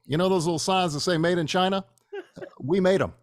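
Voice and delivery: Obama impression, measured and dry; Barack Obama. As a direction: do Obama with calm pauses. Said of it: "you know who calls them back?".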